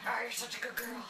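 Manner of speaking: soft, cooing praise for a dog; talking to a dog. Real, not acted. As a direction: coo at her gently.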